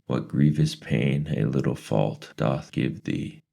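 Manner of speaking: high, lilting quoting voice; odd old lady voice. Acted. Mrs Who quoting Dante to Mrs Whatsit, high and lilting. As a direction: recite it like a strange old sage.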